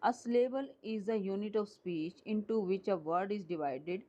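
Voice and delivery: slow, deliberate read-out of a definition; slow dictation. Shown as a demonstration. Teacher dictating a definition to students, slow and deliberate. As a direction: spell it out slowly for the students.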